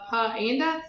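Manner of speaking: "puh anda" for panda, broken after puh; "puh anda", puh then anda; added schwa sound. A narrator's reading. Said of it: "He added his extra uh sound".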